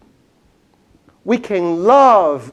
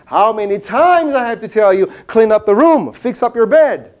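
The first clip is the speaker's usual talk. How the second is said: mock scolding, higher and louder; a wife nagging about the bed, lightly acted; wife scolding her husband over the unmade bed; 4 semitones higher, 3 dB louder than usual. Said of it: "his wife says to him".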